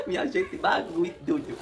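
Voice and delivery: slow and laughing through the words. Real, not acted. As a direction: let the laugh carry the line slowly. Laughing after the birth.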